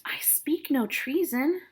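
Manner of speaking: protesting nurse. Acted. Teacher voicing Nurse.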